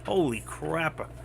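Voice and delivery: slow, drawn-out mock amazement; retold amazement. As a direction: stretch out a retold reaction of wonder. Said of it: "And I go".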